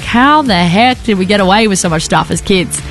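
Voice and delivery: ordinary talk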